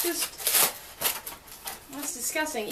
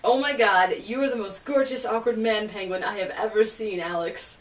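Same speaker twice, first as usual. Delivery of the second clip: gushing; 3 dB louder than usual. Retold or imitated. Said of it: "I have to say this".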